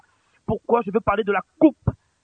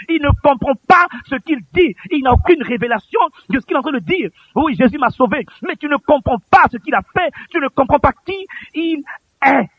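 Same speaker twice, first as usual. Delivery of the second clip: higher, driven pulpit voice; impassioned preaching; 4 semitones higher than usual. Real, not acted. Preacher rebuking uncomprehending churchgoers, impassioned. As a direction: preach it with rising urgency.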